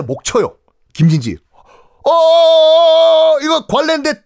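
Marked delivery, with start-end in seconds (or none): 2.0-4.2 high, louder startled protest; dismayed governor. Acted. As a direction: blurt it out in disbelief. Governor stunned at sentence.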